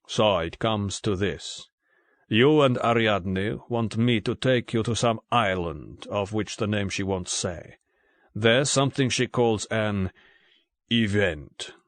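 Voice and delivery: cool, unhurried, a little slowed; cold and measured. Acted. Litzas sums up Bond's request to him, cold and measured. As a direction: lay it out coldly, one step at a time. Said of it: "his tone was cold and measured".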